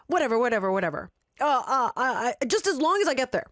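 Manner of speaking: fed-up stammering surrender; exasperated. Acted. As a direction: give up, totally fed up. Exasperated man gives in.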